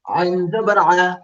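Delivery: আইন জবর আ drawn out slowly, each sound from the middle of the throat; slow letter demo. Shown as a demonstration. Teacher to online pupils, slow model of আইন জবর আ. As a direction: stretch out আইন জবর আ for the class to copy. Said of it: "Now আমরা pronounce করবো, আইন and হা".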